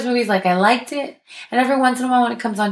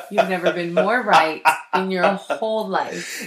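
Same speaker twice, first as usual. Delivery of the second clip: placating; slower than usual. Acted. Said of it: "Do you hear the, the multiple "you're right".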